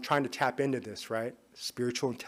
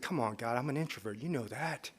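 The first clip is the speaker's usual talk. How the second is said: quiet pleading; 7 dB quieter than usual. Retold or imitated. Pleading with God in prayer.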